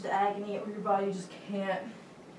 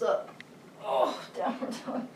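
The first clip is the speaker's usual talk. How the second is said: grunting. Real, not acted. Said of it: "Don't mind my grunting and groaning".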